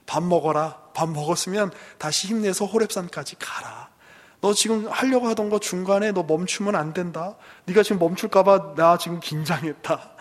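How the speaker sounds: curt, blunt command. Retold or imitated. God to weary Elijah, curt loud commands. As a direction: bark the orders loudly, no sympathy. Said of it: "매몰차게 이야기하시는 거예요".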